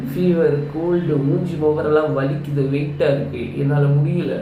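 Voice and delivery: hoarse, stuffy voice from a cold; sick hoarse voice. Real, not acted. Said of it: "என் குரலை பார்த்தீங்களா".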